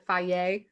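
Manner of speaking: Fage said as FAH-yay, rising questioningly; fancy pronunciation. Real, not acted. Host tries a fancy brand name, Fage as FAH-yay. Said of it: "trying to be all fancy".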